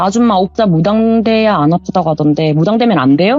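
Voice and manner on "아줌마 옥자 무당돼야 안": ordinary delivery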